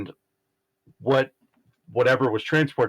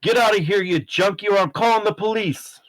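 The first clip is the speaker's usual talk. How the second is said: high-pitched yell at an intruder; angry yell; 9 semitones higher than usual. Acted. Stranger chasing a junkie out of the alley, high angry yell. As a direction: yell to chase someone off. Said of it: "someone yell".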